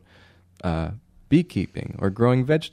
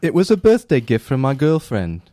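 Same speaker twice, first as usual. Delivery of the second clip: a hint of a bad Scottish-Irish accent, louder; 3 semitones higher, 4 dB louder than usual. Host reading a banker's quote in a bad Scottish-Irish accent. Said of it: "You just went into a Scottish-Irish accent".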